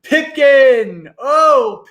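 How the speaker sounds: high, loud joyful cry; shout of triumph. Acted. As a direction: shout his name in triumph. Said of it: "a ragged shout of triumph".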